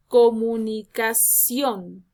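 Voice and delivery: "comunicación" slow, syllable by syllable, leaning on CIÓN; stress on accented vowel. Shown as a demonstration. Teacher giving an example, slow stressed syllables in "comunicación". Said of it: "la mayor entonación de voz va a recaer".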